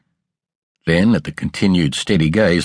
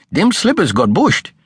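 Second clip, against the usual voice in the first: high, flustered servant voice, lightly done; a maid caught out, making excuses; lightly voiced Martha; 12 semitones higher than usual. A narrator's reading. Martha excusing herself to her mistress, mildly flustered.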